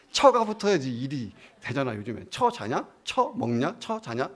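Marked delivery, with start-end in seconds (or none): 2.3-4.3 mock rude, scornful jab; a hint of a sneering kid; lightly mocking contempt; rude modern youth. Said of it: "첫자가 붙으면 이제 이게 다 비난".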